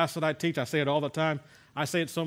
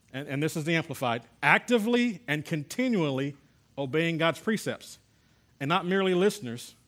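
emphatic, raised public Bible reading; scripture reading; 3 semitones higher, 4 dB louder than usual. Acted. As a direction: read the verse out firmly to a class. Reads scripture aloud to class.

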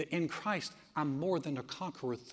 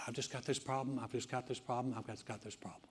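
much softer, each repeat dying away; mock self-pity; 4 semitones lower, 9 dB quieter, faster than usual. Preacher mimicking believers' whiny excuse, trailing off. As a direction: mope it out, fading to nothing. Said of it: "how many times have we said".

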